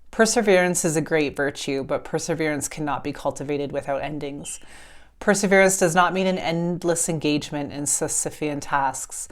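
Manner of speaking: calm, measured reading of a book passage; reading a passage aloud. Acted. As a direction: read it like a gentle oracle message.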